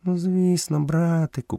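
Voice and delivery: high panther voice; panther character. A narrator's reading. Bagheera begins answering Mowgli, high panther voice. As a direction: answer little brother in a high feline voice.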